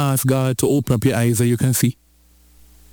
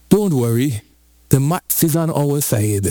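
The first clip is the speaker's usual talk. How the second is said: cool, untroubled man of God; calm. Acted. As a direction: reassure like someone sipping tea. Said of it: "calmly sip his tea".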